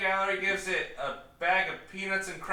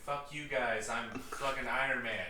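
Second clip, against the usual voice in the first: cocky rich guy; 5 semitones lower, 4 dB louder than usual. Retold or imitated. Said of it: "He could be like".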